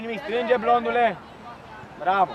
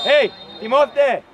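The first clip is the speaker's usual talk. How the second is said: calling out; 5 dB louder, slower than usual. Real, not acted. Coach calling player on pitch.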